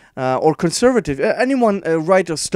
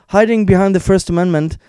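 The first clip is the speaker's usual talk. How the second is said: mocking; 5 semitones higher, 7 dB louder than usual. Mocking the article's claim.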